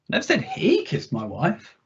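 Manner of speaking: single out he; stress on he. Shown as a demonstration. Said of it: "see how the meaning shifts with a different emphasis".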